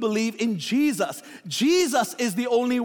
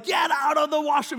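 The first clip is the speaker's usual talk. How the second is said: mock yell; 4 semitones higher than usual. Brothers fighting for the washroom.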